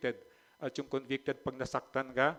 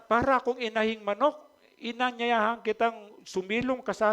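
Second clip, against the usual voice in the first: high, louder pleading lament; lamenting Jesus; 7 semitones higher, 5 dB louder than usual. Retold or imitated. Preacher voicing Jesus weeping over Jerusalem, high lament. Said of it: "talagang hagulgol na ganon".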